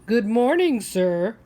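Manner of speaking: put-on little boy. Little boy greeting man.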